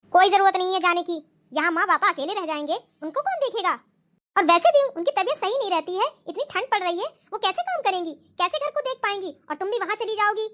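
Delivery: a hint of a stern husband, refusing firmly; lightly voiced husband putting his foot down. Husband to wife, refusing the visit, lightly voiced stern.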